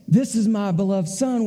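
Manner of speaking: understated divine voice from above; voice of God. Retold or imitated. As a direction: lend the words a hint of heavenly weight. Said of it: "we hear a voice, which had to be like no other voice".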